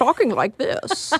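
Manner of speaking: rigid, stiff, put-on formal voice. Speaker explains an earlier impression of the studio system, mock-stiff studio-system impression. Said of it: "Very stiff".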